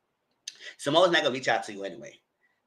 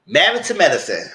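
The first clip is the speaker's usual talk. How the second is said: louder, punchy announcement of the show; show title announced; 3 semitones higher, 6 dB louder than usual. Acted. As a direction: call out the title like a host.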